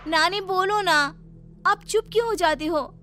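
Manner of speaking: put-on high, coaxing girlish voice; pleading young girl. Seema begs her silent Nani to speak, high and coaxing. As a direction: nudge the silent grandmother to answer.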